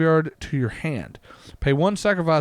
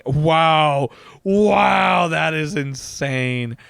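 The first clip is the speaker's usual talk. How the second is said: loud, drawn-out wow; be blown away by it; amazed at a card, loud and slow; 5 dB louder, much slower than usual. Real, not acted.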